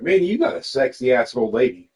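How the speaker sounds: laughing tease. Retold or imitated. Tipsy teasing remark retold.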